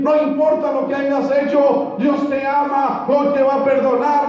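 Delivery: a hint of a preacher urging the young man to rise; preacher calling out. Retelling the preacher calling a sinner forward, mildly mock-preachy. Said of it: "cuando él estaba gritando".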